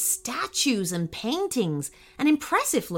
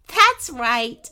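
higher, louder amused confirmation; 4 semitones higher, 6 dB louder than usual. Acted. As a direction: confirm it merrily, voice raised. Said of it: "laughed Princess Candy".

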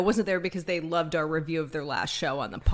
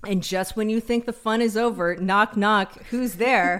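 Stefon impression; 3 semitones higher, 3 dB louder than usual. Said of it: "use his vernacular".

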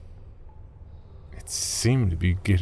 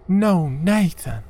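high, slow desperate shout, much louder; Margaret shouting; 10 semitones higher, 4 dB louder, slower than usual. Acted. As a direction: scream his name to stop him. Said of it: "I heard her shout".

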